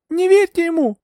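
very high, loud cry; high-pitched, frantic appeal; desperate warning. A narrator's reading. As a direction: warn him urgently at a high pitch. Heroine desperately warns.

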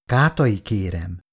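a mild indignant flare; indignant snap. Acted. Irén protests at Kátai's insolence, mildly indignant. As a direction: cut him off, offended. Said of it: "csattant fel felháborodottan".

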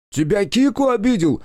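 high, loud accusing yell; shout. A narrator's reading. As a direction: roar it as you lunge. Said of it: "закричал он".

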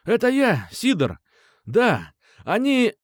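high, loud, panicked yelling; frantic shout. Acted. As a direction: yell for help into the phone. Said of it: "закричал он".

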